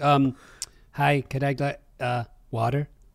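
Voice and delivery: put-on American accent, very slow and deliberate. Imitating visitors asking for water in the United States, American accent. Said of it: "you guys will just full on adopt an American accent when you say water".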